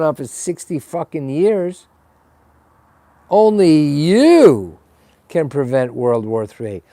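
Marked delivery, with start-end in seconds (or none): 3.3-6.8 lightly voiced Smokey slogan, slow and leaning on you; a hint of the public service announcer; Smokey the Bear slogan. To the viewers, a mock Smokey the Bear guilt-trip, lightly voiced. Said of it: "now I'm using the Smokey the Bear".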